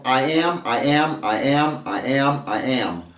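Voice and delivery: "I am" repeated, stress on "am" each time; iambic beat. Shown as a demonstration. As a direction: tap out the beat, weak "I", strong "am". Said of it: "the form".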